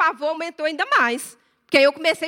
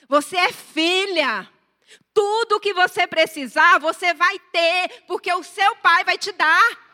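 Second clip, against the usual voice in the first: emphatic fatherly promise; 4 semitones higher, 4 dB louder than usual. Retold or imitated. Voicing God's promise.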